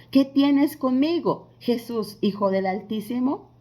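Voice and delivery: lightly acted demonic challenge, loud and slow at first; demons speaking. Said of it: "los demonios hablaron por él".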